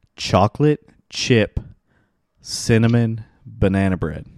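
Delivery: very slow, deliberate, each word drawn out in turn. Naming a food for listeners addressed as Mad Mob, said very slowly. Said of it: "I'm going to say it slow".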